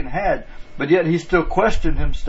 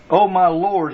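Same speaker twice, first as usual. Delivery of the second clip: "Oh my Lord" with weight on "Lord"; emphasis on LORD; 3 semitones higher, slower than usual. Retold or imitated. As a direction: quote it reverently, leaning on the word "Lord". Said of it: "with a special emphasis on it".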